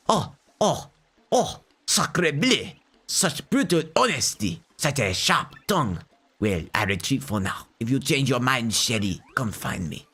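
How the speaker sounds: lightly hammed-up French charmer, retreating; a hint of a wounded Casanova bowing out; mock French suitor. Rebuffed suitor to Shelly, mild mock French charm.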